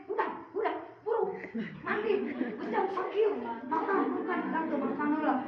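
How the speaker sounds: put-on a mother nagging her child to get moving. Shown as a demonstration. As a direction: rattle off orders like a nagging mum. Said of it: "mengungkapkan komunikasi dengan anak-anak lain".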